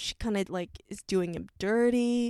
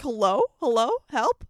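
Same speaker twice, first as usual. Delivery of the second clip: mock swooning; 3 semitones higher, 6 dB louder than usual. Swooning over the chemistry scene.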